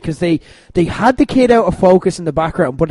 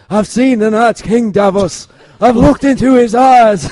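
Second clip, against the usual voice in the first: hammed-up character impression, raised and a little louder; Jon; 5 semitones higher, 5 dB louder than usual. Host doing their only Jon impersonation, mock-solemn. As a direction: put on the solemn hero's voice, badly. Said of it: "my only Jon impersonation I can do".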